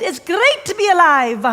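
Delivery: beaming, loud cheer; exuberant retelling. Retold or imitated. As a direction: belt it out with delight. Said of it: "And then he said".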